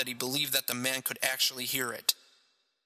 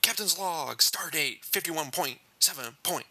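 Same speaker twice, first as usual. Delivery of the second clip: lightly voiced starship captain; William Shatner; 2 semitones higher than usual. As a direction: play the captain reading his log. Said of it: "more like William Shatner every day".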